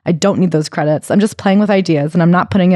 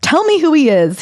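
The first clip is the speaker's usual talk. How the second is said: a mock furious demand, pitched well up; indignant, as if defending him; 8 semitones higher than usual. Diane furiously confronting the lawyer, high indignant demand. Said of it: "and she's furious".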